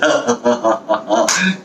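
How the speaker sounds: staccato evil chuckle; villain laugh. Acted. Storyteller teasing who the villain is, villain laugh.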